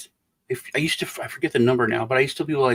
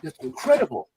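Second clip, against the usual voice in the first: imitation of an awestruck listener; lightly acted astonishment; retold awe; 3 semitones higher than usual. Retold amazed reaction to joke.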